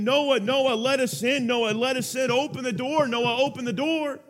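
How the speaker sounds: imagined crowd pounding on the ark door, pleading; desperate pleading. Retold or imitated. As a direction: beg to be let in. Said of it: "imagine them pounding on the door saying".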